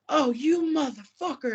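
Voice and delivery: hammed-up greeting curse; mock outrage. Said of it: "And I was like".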